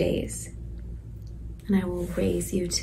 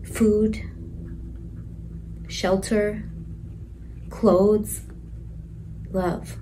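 whispered; slower than usual. Real, not acted. Mother whispering promises to her unborn baby.

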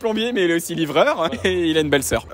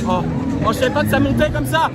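surprised; 4 semitones higher than usual. Real, not acted. Surpris par la montée.

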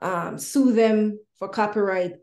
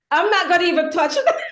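laughing it off, higher; real laughter, pitched up; 8 semitones higher, 5 dB louder than usual. Real, not acted. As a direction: laugh while backing away.

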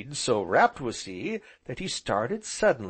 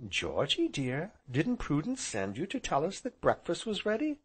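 gentle aunt, lightly raised pitch; soft voice; 6 semitones higher, 3 dB quieter than usual. A narrator's reading. Aunt reminds small nephew about breakfast, gently. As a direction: interrupt gently, softening the voice. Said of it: "Anthea's soft voice interrupted him".

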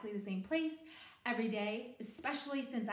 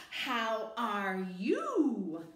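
slow, louder drawn-out question; teacher voice; 5 dB louder, much slower than usual. Shown as a demonstration. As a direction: spell it out for the student. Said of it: "and then I say".

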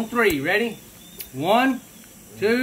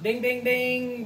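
slow sing-song ding ding ding; called out; 3 semitones higher, much slower than usual. Real, not acted. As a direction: ring it out slowly like a bell. Timer up, calling out.

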